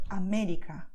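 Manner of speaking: América stressed on the MÉ; stress on the accent. Shown as a demonstration. Teacher showing where the acento falls, stress on MÉ in América. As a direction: lean on the second syllable of América. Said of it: "You stress where you see the acento".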